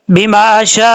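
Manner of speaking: शा closed with a sharp catch of hamza; careful tajweed stop; glottal stop on the hamza. Shown as a demonstration. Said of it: "इस तरह पढ़ा जाएगा".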